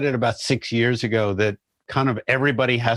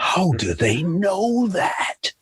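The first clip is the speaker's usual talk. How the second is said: puzzled; 8 semitones higher, much slower than usual. Retold or imitated. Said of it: "And I'm like".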